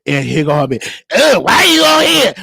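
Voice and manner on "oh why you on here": loud, indignant mock challenge; mock confrontation. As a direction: burst in as the accusing caller. Acted caller confronting him on line.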